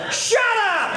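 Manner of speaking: high, laughing yell of disbelief; wife's yell. Retold or imitated. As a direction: snap it out through a laugh. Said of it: "And she said".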